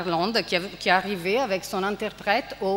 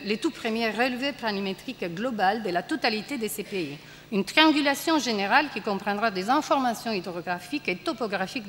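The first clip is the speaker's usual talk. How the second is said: lightly read-aloud tone, a touch quieter; measured classroom reading; reading a quoted passage; 3 dB quieter than usual. Acted. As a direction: read the officer's decree out to the class. Reads translated play passage.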